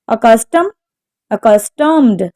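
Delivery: accustomed, stressed on CUS; accustomed with the weight on its second syllable. Shown as a demonstration. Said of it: "is on the second syllable".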